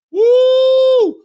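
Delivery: loud, very high "woo"; excited whoop. Real, not acted. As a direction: whoop at the huge punch. Reaction to a big uppercut.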